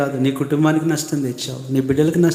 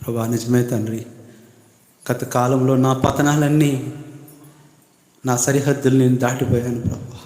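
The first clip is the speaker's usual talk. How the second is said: led prayer. Acted. Preacher voicing the congregation's confession to God, earnest. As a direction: pray it aloud for the flock, humbly.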